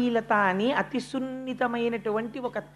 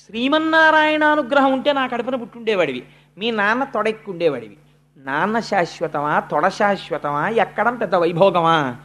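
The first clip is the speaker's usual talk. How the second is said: scornful Suruchi; 3 dB louder than usual. Acted. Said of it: "ఎలా మాట్లాడుతుందో చూడండి".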